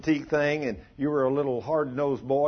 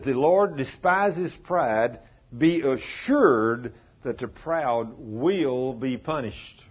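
scripture reading; much slower than usual. Acted. Reading scripture slowly with weight.

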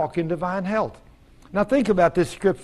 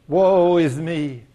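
slow, mildly mocking lament; mock self-pity; much slower than usual. Preacher imitating self-pitying churchgoers, slow mock lament. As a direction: draw out a mock woe.

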